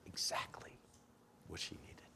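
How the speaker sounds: hushed. Real, not acted. Preacher drops to hushed emphasis.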